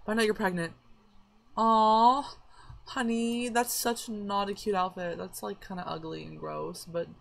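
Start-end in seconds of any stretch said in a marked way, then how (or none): 1.6-5.2 high, slow sweet coo with a sting; mock coo. Real, not acted. Gamer teasing her character's outfit, mock sweet.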